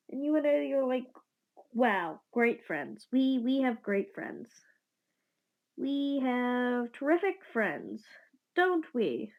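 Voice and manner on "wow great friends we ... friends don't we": sarcastic complaint. Acted. Complaining about abandoning friends.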